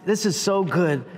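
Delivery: hushed earnest prayer, softly pleading; quiet prayer. Retold or imitated. Preacher voicing his own prayer, soft and humble. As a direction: talk to God like a humble request. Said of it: "I'd say".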